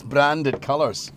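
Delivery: slipping into a Scottish accent; a touch of Scottish creeping in. Real, not acted. Host describing outfit and mug, slipping into Scottish. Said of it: "I don't know why I've gone Scottish again".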